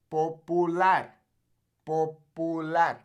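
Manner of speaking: "Popular" slow as po-pu-LAR; Spanish pronunciation. Shown as a demonstration. Teacher points learners to the U, slow Spanish pronunciation. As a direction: draw out "Popular" with a pure oo. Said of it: "notice the U".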